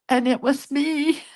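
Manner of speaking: fighting back tears while telling it; choked up, on the edge of crying; voice breaking. Real, not acted. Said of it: "I'm gonna cry even talking about it".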